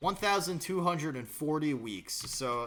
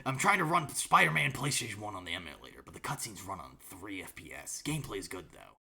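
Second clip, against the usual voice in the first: Snake impression; 4 semitones lower than usual. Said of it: "Nice Snake impression".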